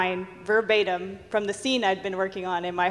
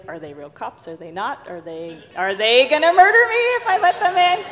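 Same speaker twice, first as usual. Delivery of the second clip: nervous inner worry; 2 semitones higher, 4 dB louder than usual. Retold or imitated. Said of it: "And I was a little nervous".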